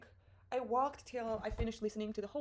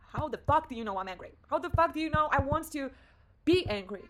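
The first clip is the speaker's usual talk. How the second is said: loud exclamation building higher; loud disbelief; 4 semitones higher, 9 dB louder than usual. Retold or imitated. Amazed at author describing her anger, loud disbelief. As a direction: demand an answer, building to a shout.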